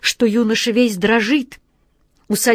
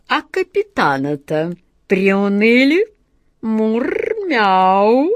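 sly cat voice. Acted. Cat's thoughts voiced.

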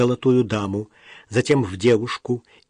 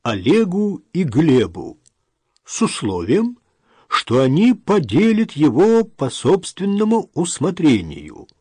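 slow, measured official voice, pitched up; formal reading aloud; 5 semitones higher, 3 dB louder than usual. A narrator's reading. Notary reads the sons their father's will, formal reading. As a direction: declaim each phrase of a legal document. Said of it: "читал нотариус".

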